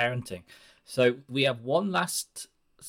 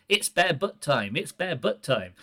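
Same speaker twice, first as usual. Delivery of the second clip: put-on baby talk; 5 semitones higher than usual. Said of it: "use a baby voice".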